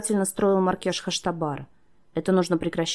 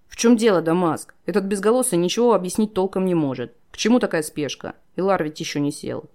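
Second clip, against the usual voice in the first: impatient demanding; 4 dB louder than usual. Acted. Shah questions Damask impatiently.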